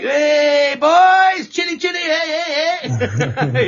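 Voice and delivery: put-on very high, loud sing-song hey boys; squeaky mock cheery greeting; imitating friend's greeting. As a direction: chirp it like an excited mate.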